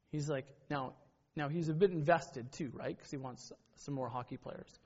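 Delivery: ordinary talk, nothing marked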